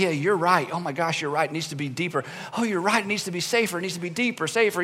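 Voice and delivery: mock helpless agreement. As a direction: cave in to each side. Leader agreeing with whoever spoke last.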